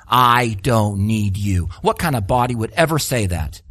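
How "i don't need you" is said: much lower, very slow and proud; haughty head. Pretend. Head dismissing the feet, low and haughty. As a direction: look down on the feet and drawl it. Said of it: "the head can't say to the feet".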